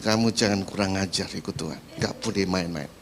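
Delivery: very low, steady stern voice; God rebuking. Retold or imitated. God warns the believer not to play around, low and stern. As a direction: admonish in a deep, even tone.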